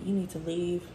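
understated, indifferent imitation; uncaring dismissal. Imitating how the supervisor said it, uncaring. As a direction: send them away as if you don't care. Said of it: "she didn't give a fuck".

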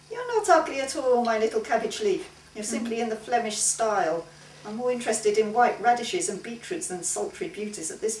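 sweetly condescending artist; teasing painter voice. Acted. Franz teasing Maggie.

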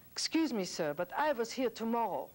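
put-on a nervous elderly man working up his courage; old refugee's plea. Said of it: "walked up to him and said".

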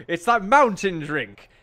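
put-on slow, creaky old-timer voice; very old man. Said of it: "my old man voice is not exactly trained".

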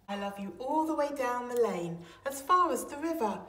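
eager cry. Acted. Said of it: "cried Little Nut Brown Hare".

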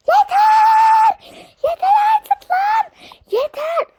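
screamed high and loud, raging; furious shout. Pretend. Witch screaming at the noisy kids, furious shout. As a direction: scream at them to stop.

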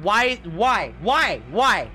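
loud, rising whiny why's; exasperated whining. Real, not acted. Player whining at the game.

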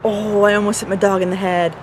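talking while chewing gum. Real, not acted. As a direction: chew gum as you talk. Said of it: "I'm chewing gum".

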